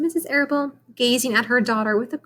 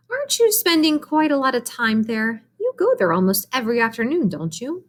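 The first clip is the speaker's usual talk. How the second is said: a hint of a brisk, concerned mom; lightly voiced mother; 3 semitones higher than usual. Mrs Arable tells Fern to get ready, light mom voice. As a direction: hurry her child along, gently firm.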